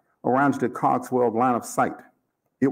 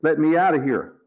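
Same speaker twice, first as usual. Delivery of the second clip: higher, insistent demand; angry demand; 4 semitones higher, 4 dB louder than usual. A narrator's reading. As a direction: demand release firmly, pitch raised. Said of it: "Cogswell demanded".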